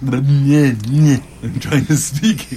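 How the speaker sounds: tongue-tied yowls before the words; cat-like garbled noises. Real, not acted. Tripping over own words to co-host, cat-like garble. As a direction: stumble into silly cat-like noises, then speak. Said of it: "You sound like Kiba".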